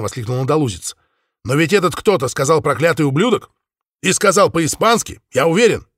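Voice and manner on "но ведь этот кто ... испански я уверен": excited. Acted. Spaniard excited.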